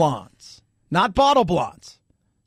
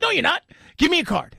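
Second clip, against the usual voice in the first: imitating disbelief; 8 semitones higher, faster than usual. Retold disbelieving Uber driver.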